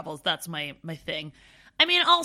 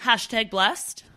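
mock hashtag; slower than usual. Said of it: "No, I'm kidding".

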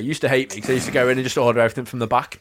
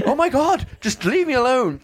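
mock exasperation; 11 semitones higher than usual. Overwhelmed by the sellers.

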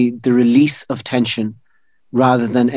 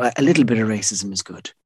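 put-on Indian accent; 2 semitones lower, 4 dB quieter, faster than usual. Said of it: "I do an Indian accent".

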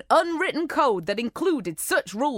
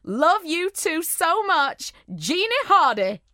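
put-on Texas accent; 6 semitones higher than usual. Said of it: "Okay, I'm gonna try".

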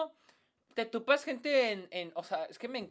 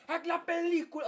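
clickbait video narrator; 10 semitones higher than usual. Retold or imitated. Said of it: "me cansan los que dicen".

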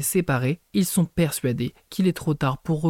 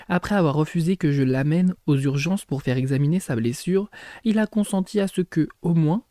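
reading aloud. Acted. Reads a novel chapter aloud.

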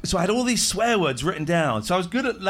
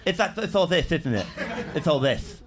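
imitating Spanish speech sounds; mock Spanish accent. Mimicking the Spanish example, rough mock Spanish. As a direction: caricature how Spanish speakers talk. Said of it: "they all talk like that".

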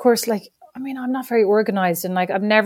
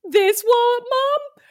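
put-on much higher, innocent child; innocent kid; 13 semitones higher, slower than usual. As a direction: ask sweetly like a boy. Son finds the wallet.

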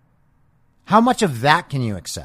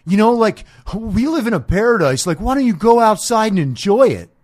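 laid-back dude; 6 semitones higher, 5 dB louder than usual. Retold or imitated. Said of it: "I had a dude say to me".

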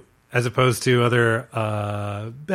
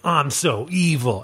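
mustache-twirling villain; slower than usual. Retold or imitated. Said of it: "like, a lot of, like, mustache twirling".

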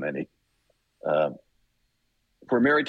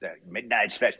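Wolfman Jack; 3 semitones higher than usual. Retold or imitated. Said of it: "which was like".

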